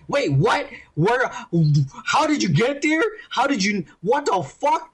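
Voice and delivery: confused, rising questions; baffled. Retold or imitated. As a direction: question it in disbelief. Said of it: "I'm all like".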